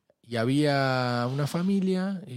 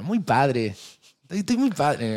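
says muy padre the Mexican way, stress on muy; mock Mexican slang voice; Mexican accent. Shown as a demonstration. Friend jokes about a Mexican phrase, Mexican accent. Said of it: "sonó muy mexicano".

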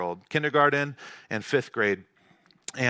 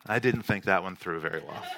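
rueful chuckle, a touch softer; laughing admission; 8 semitones lower, 6 dB quieter than usual. Retold or imitated. To his wife, owning up to the prank, laughing. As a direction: laugh at your own blunder. Dad admitting mistake, laughing.

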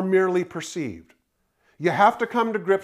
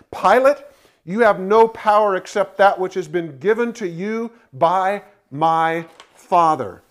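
calling out Pilate's name louder, then steady and firm; clear, firm declaration; 4 dB louder than usual. Retold or imitated. Preacher voicing Jesus to Pilate, firm and loud. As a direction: speak it with calm authority, stretching out the final words. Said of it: "Listen to his clarity on this matter".

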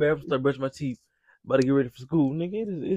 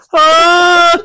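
very high, loud squeaky huh; shrill mock startled yelp; 14 semitones higher, 18 dB louder than usual. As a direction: squeal it like a spooked kid. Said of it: "That nigga said".

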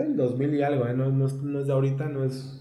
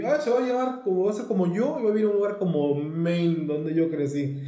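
light, high mocking voice of a self-obsessed author; poking fun at Stephen King writing himself, high and mocking; 4 semitones higher than usual. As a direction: tease him by playing him, pitch up at the start. Voicing Stephen King's self-reference.

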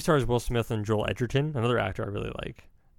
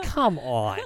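exasperated mock yell, pitched up; retold yell; 5 dB louder than usual. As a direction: mildly re-enact yelling at a bad film. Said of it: "I literally yelled at my screen".

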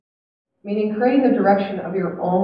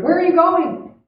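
high-pitched storyteller's call; mild narrated shout; shouted question; 8 semitones higher, 3 dB louder than usual. A narrator's reading. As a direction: call out to a passing rider.

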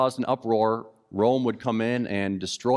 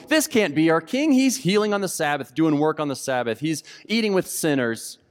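indignant objection; 4 semitones higher than usual. Acted. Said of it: "the other group going".

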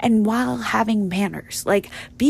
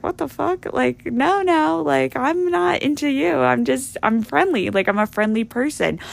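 high, incredulous what-the-hell; startled protest, pitch jumping up; shocked disbelief; 5 semitones higher than usual. Retold or imitated. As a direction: squeak up in disbelief, then settle. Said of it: "I'm thinking to myself".

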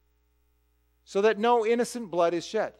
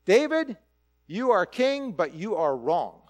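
prophet's rebuke; slower than usual. Retold or imitated. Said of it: "the likes of Nathan".

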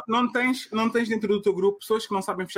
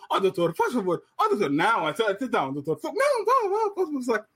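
pleading at the door; 3 semitones higher than usual. Retold or imitated. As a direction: beg to go in last, giggling. Acting the man at the lift door.

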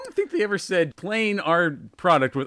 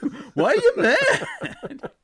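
high, hammed-up teasing whoops, slowing into a drawl; mock fourth-grade girls; slower than usual. Co-host mocking the storyteller's clueless boasting, hammed-up teasing voice. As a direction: tease in a squealing, put-on kid voice. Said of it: "fourth grade girls be like".

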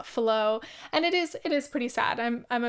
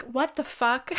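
laughing; 11 semitones higher, slower than usual. Real, not acted. Laughing at herself crying.

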